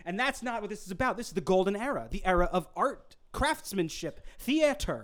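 lofty theatrical tone; grandiose actor voice. Acted. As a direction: speak like a proud old ham actor. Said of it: "re-disappear into the role".

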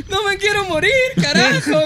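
high mock sob, laughing; mock crying. Imitating Jesse on the bumpy flight, laughing mock cry. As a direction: whimper it like a terrified friend, half laughing. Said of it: "gritó el Jesse".

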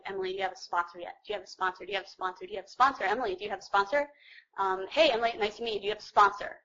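rapid, repeated questions from one person after another; constant pestering. Retold or imitated. Newcomers' meeting, everybody asks Emily about a sponsor, constant pestering. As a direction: imitate people asking relentlessly, one after another.

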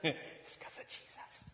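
voiceless, chuckled aside; retold chuckle, barely voiced; chuckling. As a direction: say it softly through a little laugh.

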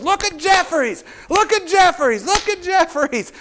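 very high, loud, jubilant cries; excited shouting. Retold or imitated. Coach hopping and shouting over his tackle. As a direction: crow with delight over the player. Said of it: "hopping and shouting".

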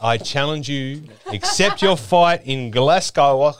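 hammed-up slow challenge to a rival; mock fight challenge. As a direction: lay down the challenge slowly like a fight promo.

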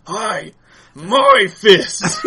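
high, loud hammed-up battle cry; mock scream. Friend imitating Banshee from the cartoon, high, loud mock yell. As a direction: yell it out like a cartoon hero mid-brawl. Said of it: "the fucking Banshee just goes".

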